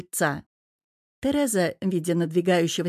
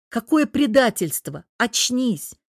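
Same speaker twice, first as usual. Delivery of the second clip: louder and higher, jolting her awake; shaken, louder outburst; 4 semitones higher, 4 dB louder, slower than usual. Acted. Чёрт встряхивает жену за плечи. (громче, встряхивая жену)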